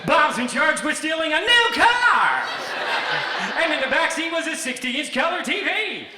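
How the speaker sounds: high, loud game-show host shouting, laughing through it; game-show bailiff. Retold or imitated. Bailiff announcing the next case in game-show host voice. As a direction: call the defendant like a game-show contestant. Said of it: "the bailiff launches into".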